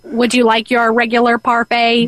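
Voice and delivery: even, machine-like robot voice. Pretend. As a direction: speak as the store robot. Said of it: "The robot".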